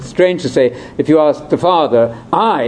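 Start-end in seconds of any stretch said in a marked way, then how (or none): 2.3-2.6 I said with weight, slightly high; stress on I. Shown as a demonstration. Teacher stressing "I" to listeners, emphatic. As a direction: lean hard on "I".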